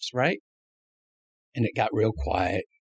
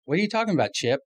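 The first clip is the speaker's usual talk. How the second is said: incredulous question; 10 semitones higher, faster than usual. Retold or imitated. Retold startled question to Chip.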